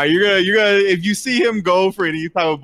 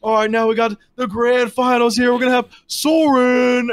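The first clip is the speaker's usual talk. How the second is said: pitched-up ringside announcement; fight announcer; 6 semitones higher, 3 dB louder than usual. Acted. Game master introducing the grand finals to spectators, announcer. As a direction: build up the matchup for the crowd.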